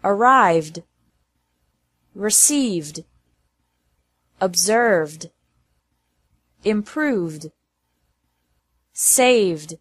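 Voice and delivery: "Arrived", "Saved" ending in a voiced d, no extra syllable. Shown as a demonstration. Teacher drilling past-tense endings for learners, ED said as D. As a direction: model each word alone, like "Improved" closing on a d. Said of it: "E D is pronounced like D".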